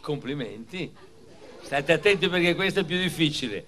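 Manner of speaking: big, bright quiz-master questions to a crowd; milk each question like a TV host; showy game show host. Acted. Quizzing schoolchildren like a quiz. (presentatore da quiz televisivo)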